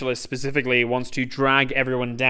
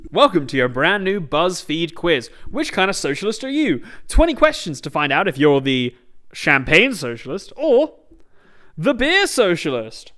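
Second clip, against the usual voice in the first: loud, upbeat quiz-host parody; hammed-up BuzzFeed announcer; mock quiz host; 3 semitones higher, 5 dB louder than usual. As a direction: sell it like a clickbait quiz.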